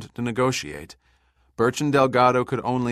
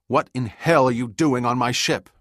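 loud, higher angry demand; 5 semitones higher, 7 dB louder than usual. A narrator's reading. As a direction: bark it at the intruder. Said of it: "Birch demanded".

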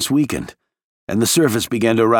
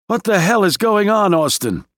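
angry shout; 10 semitones higher than usual. A narrator's reading. Gant furious over the radio.

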